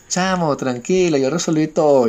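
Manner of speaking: retold reassurance. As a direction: draw it out like you have it all handled. Retold lady reassures the speaker. (tranquilizando, lento y más agudo)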